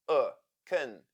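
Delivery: isolated 'uh', then 'kun' with a weak vowel; schwa sound. Shown as a demonstration. Teacher demonstrating the unstressed syllable, schwa sound. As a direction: give 'uh' and 'kun' the same lax schwa. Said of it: "letter O sounds like schwa".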